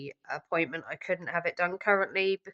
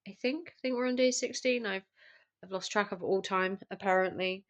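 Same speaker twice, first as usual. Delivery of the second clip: sick voice. Real, not acted. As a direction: voice worn down by the flu. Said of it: "as you can hear, it's not giving up".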